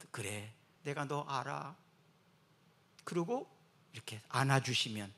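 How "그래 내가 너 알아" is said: slow, soft reassurance; a hint of a gentle Lord consoling; gentle comfort. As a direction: speak as a tender comforting Lord.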